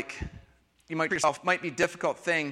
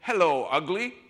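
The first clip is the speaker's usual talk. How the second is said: mock self-insult; 3 dB louder than usual. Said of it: "look in the mirror and go".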